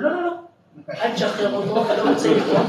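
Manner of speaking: mock panic. Frightened refusal, laughing.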